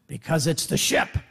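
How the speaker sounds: low, reluctant admission in a low voice; grudging raftmates. Acted. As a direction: give it up reluctantly, pitched low. Raft people reluctantly answering.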